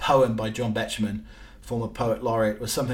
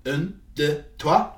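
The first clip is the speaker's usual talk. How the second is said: bad French accent; 4 semitones higher, 3 dB louder, slower than usual. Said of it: "my French accent is, is, is appalling".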